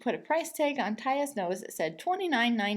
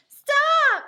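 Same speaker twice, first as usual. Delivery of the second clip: high, loud shout; loud yell; 11 dB louder than usual. A narrator's reading. Girl yelling at the man lifting her by the hair. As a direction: yell it as loud as you can. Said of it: "yelled as loudly as she could".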